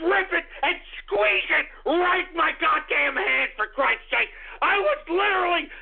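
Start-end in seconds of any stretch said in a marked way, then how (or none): 4.8-5.7 furious shout. Acted. Rage at imagined troll face.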